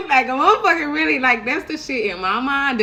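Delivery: high, loud, laughing rant. Real, not acted. Laughing exclaim.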